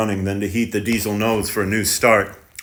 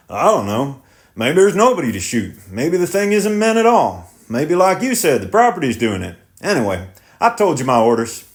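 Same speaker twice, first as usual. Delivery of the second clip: put-on higher, insistent young driver; defensive and pleading; tractor driver voice; 5 semitones higher than usual. Driver unsure.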